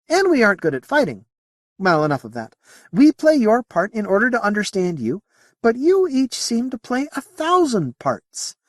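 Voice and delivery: high-pitched, earnest alien; alien character. Acted. Moti explains its limits to Whitbread, high alien voice.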